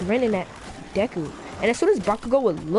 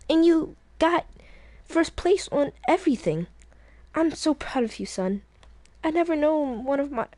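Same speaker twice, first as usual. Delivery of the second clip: lightly voiced proud mother, a little higher; proud mom; 5 semitones higher than usual. Inko tells son she's proud, warm praise.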